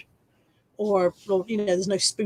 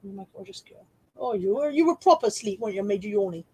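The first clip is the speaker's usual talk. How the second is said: tender dog talk. Real, not acted. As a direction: murmur fondly to the dog. Soft talk to her dog.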